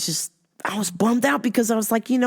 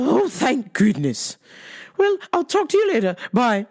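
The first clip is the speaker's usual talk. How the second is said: mom voice; 5 semitones higher than usual. Retold or imitated. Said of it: "She's like".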